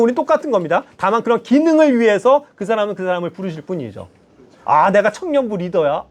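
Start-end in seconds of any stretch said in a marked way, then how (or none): 4.6-6.1 slow, mock self-important boast; swaggering, proud. Preacher mocking a proud youth leader, slow swagger. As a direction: puff yourself up, slowly and lightly. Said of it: "으쓱으쓱 하면서".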